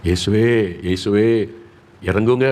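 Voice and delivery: mildly acted pleading prayer; imitated tearful plea. Mother praying for her sick child, imitated tearful plea. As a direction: call out as a weeping mother would, understated. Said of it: "என் தாயார் அழுதாங்க".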